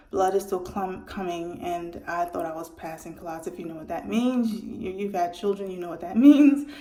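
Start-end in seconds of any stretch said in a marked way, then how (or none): 5.7-6.7 laughing. Real, not acted. Knowing aside to listeners.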